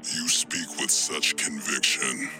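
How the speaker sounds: angry villain voice. Acted. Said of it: "a voice so full of anger".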